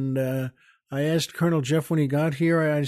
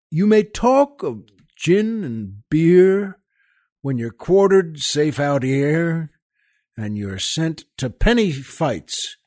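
dramatic ballad recital with soldier's swagger; poem recitation. Acted. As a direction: recite it like an old barrack-room ballad. Host recites Kipling poem.

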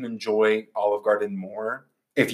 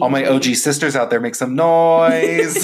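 hype call; 4 semitones higher, 4 dB louder than usual. Pretend. Hyping up Olive Garden fans.

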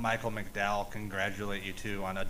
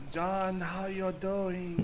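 Satan impression; 8 semitones higher, much slower than usual.

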